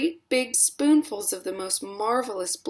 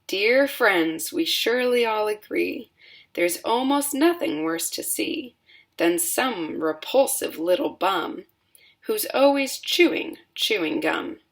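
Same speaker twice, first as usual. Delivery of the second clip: rhyming verse; 3 semitones higher than usual. A narrator's reading. Oompa Loompas sing to the party, rhythmic verse. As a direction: chant the song lines in rhythm.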